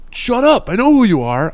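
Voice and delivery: high, whiny voice of a groggy friend; imitating dazed friend. Dazed friend waking up, telling him to stop, in a high mock whine. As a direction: play the concussed buddy brushing him off. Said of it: "And you're like".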